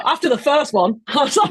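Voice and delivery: talking through laughter; laughing. Real, not acted. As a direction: laugh as you explain, words breaking into giggles. Speaker laughing about own joke.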